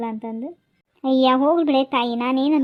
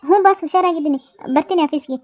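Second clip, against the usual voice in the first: nervous; 3 semitones higher, 4 dB louder than usual. Acted. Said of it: "boss ಹತ್ರ ಸುಳ್ಳು ಹೇಳೋ".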